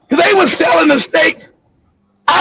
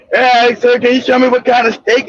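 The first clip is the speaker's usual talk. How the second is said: mock customer voice; 5 semitones lower than usual. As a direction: lower pitched, a bit fast polite customer.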